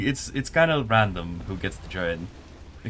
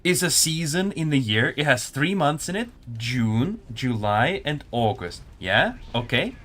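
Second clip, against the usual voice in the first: condescending mock lesson to a chat viewer; mock patronizing explanation; 5 semitones higher than usual. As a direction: explain it like to a small child, teasing. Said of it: "I'm gonna explain this real quick".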